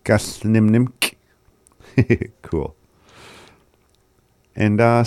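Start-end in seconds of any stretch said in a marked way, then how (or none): 0.0-1.1 "Gasnimnimk" slowly, both nims complete; full double nim. Shown as a demonstration. Teacher models the full word after the recording, slow double nim. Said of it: "Has the nim twice in there".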